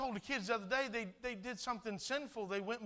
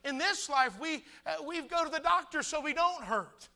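high, loud preacher's delivery; preaching; 6 semitones higher, 8 dB louder than usual. Real, not acted. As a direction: preach it out forcefully, raised pitch. Preaches at full force.

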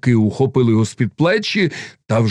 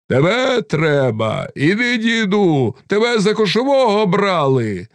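emphatic envoys' demand, pitched up; insistent calling out; 10 semitones higher than usual. A narrator's reading. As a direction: urge him along in a high calling voice. Cossack envoys urge the old man.

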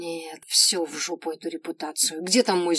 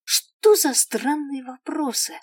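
indignant; 7 semitones higher, 6 dB louder, slower than usual. A narrator's reading. Narrator's indignant inner voice.

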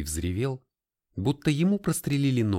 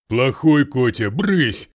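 loud, high scolding yell; shouting; 3 semitones higher, 9 dB louder, slower than usual. A narrator's reading. The bitten Russian yells at the cat, loud. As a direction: shout the cat off your hand. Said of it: "закричала жертва".

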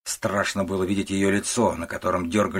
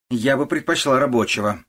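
louder, higher, dismissive; snorting disdain; 5 semitones higher, 5 dB louder than usual. A narrator's reading. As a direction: scoff at the suitor's job. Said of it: "фыркает она". (пренебрежительно фыркая)

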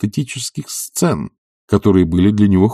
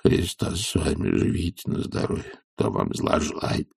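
embarrassed grumble; 3 semitones lower, 8 dB quieter than usual. Acted. Zakhar grumbling in embarrassment to his master. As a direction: grumble under the breath, flustered. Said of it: "ворчал Захар в совершенном смущении".

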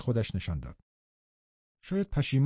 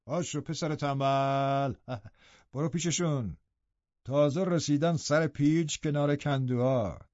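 forced warmth; slower than usual. Acted. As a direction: coax the lazy son kindly, slowly.

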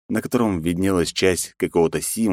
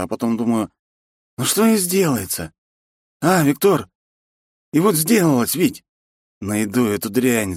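put-on drunk man's anguish; 5 semitones higher than usual. Drunk man retells last evening.

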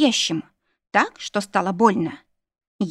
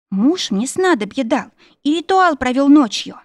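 raised, plaintive pitch while explaining; pained wailing; 6 semitones higher, 4 dB louder than usual. A narrator's reading. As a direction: moan out the lie as if suffering. Heroine feigns agony to captor. (жалобно причитает от боли)

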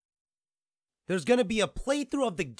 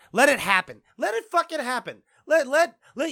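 higher, louder fed-up rant; manic surrender; 9 semitones higher, 7 dB louder than usual. Real, not acted. Vlogger ranting at YouTube gone highbrow, manic surrender. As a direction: give up with a shout.

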